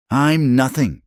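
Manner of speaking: high, anguished cry. A narrator's reading. Alina cries out to Eli in despair. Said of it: "she cried".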